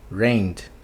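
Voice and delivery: rained with a quick D after N; D rápido. Shown as a demonstration. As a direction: say rained as one syllable ending "nd". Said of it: "sonzinho rápido de D depois desse N". (rained com D rápido depois do N)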